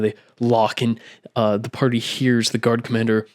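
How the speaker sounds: ordinary talk, nothing marked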